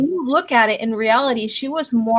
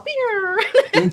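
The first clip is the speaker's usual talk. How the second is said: deflated Luke; 9 semitones higher than usual. Retold or imitated. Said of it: "He's all".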